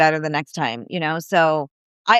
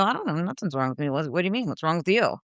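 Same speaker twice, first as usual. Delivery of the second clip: puzzled reply; 3 semitones lower, 7 dB quieter, faster than usual. Retold or imitated. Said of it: "And I go".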